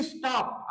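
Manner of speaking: स्टॉप broken into is and TOP, weight on TOP; two-part syllable split. Shown as a demonstration. Teacher splits the word for students, स्टॉप with stress on the second part. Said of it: "आधा इस इधर हो गया और टॉप अलग हो गया".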